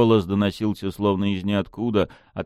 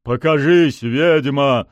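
loud, raised-pitch command; demanding; 7 semitones higher, 7 dB louder, slower than usual. A narrator's reading. Pushkin demands the hidden witch show herself, demanding shout. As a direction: call the witch out forcefully. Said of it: "потребовал он".

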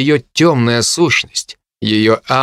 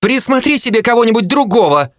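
defiant shout; 9 semitones higher than usual. Acted. Jo defies the harpy.

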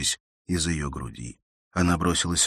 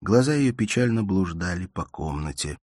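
ordinary delivery, nothing marked

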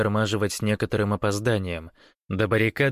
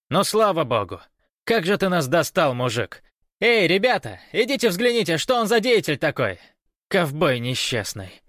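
high, loud grumbling rant; fed-up guard's raised voice; exasperated shouting; 9 semitones higher, 4 dB louder than usual. A narrator's reading. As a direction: shout in exasperation, then call the lads.

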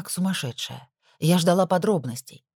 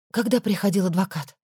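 ordinary delivery

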